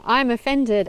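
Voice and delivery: lightly imitated indignation; mock irate. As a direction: mimic an upset TV host taking personal offense. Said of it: "so upset and getting so irate".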